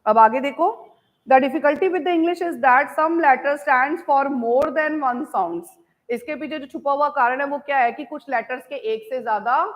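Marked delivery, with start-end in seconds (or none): 1.3-5.8 very slow, word by word English dictation. Shown as a demonstration. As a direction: dictate each word slowly so students can write. Teacher dictating English sentence.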